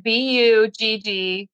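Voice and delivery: letters spelled slowly. Shown as a demonstration. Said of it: "It's B".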